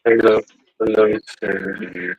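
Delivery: voice-changer killer greeting; Ghostface voice. Pretend. Showing Randy the toy by greeting Cindy, ghost face voice. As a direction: greet her as the masked killer, through a voice changer. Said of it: "has the ghost face voice".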